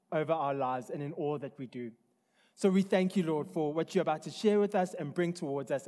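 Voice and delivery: earnest prayer voice. Acted. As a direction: pray aloud to the congregation. Opening prayer before sermon.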